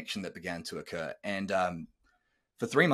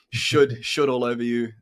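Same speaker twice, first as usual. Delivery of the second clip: laughing; 10 dB louder than usual. Real, not acted. Flubbing the word, laughing it off.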